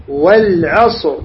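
"والعصر" slowly, ending on a vowelless heavy R; heavy silent R. Shown as a demonstration. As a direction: model "والعصر" slowly with thick final R. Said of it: "لاحظ". ("والعصر" ببطء مع راء ساكنة مفخمة)

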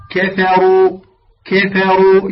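"كفروا" with thin "ka", then a full "ru"; light kaf, heavy ra. Shown as a demonstration. Teacher models the word for students, light kaf and heavy ra. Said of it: "لا تقول كو".

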